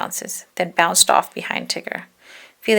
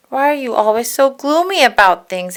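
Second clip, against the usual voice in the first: higher, louder little pig voice; small Piglet; 5 semitones higher, 6 dB louder than usual. Acted. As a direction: ask it earnestly. Piglet asks Eeyore.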